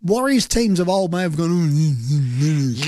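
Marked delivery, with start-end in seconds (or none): 1.5-2.9 drawn-out wordless mock whine; mock whimper. Co-host imitating how Warriors teams of old reacted, mock whimper. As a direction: imitate a sulky team moaning.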